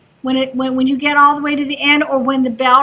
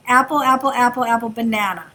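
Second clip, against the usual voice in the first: steady repeated apple, then banana on a falling close; listening demo; 3 semitones lower, 3 dB quieter than usual. Shown as a demonstration. Teacher to class, chanting apple then banana for a sound drill. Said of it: "I'm gonna say".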